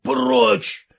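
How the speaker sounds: mild mock bark of away; shouting. A narrator's reading. Konkonych drives Sergei away, shouting. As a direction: drive him off with one word. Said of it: "закричал Конконыч".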